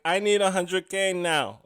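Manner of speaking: slow, bossy demand for the money; lightly imitated brash demand; demanding like she's owed it; mock demanding. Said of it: "but instead it's like".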